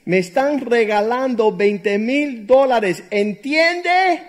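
husband insisting loudly to his wife; exasperated insistence. Retold or imitated. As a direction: spell it out to a stubborn wife. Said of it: "deja explicártelo de nuevo".

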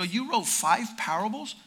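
retold question with a rising tune; incredulous echo question. Pastor questions young man's five parables, incredulous. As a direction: echo it back as a doubting question.

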